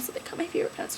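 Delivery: sad, breathy whisper. Real, not acted. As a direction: whisper it like a loss. Mournful whisper about pants.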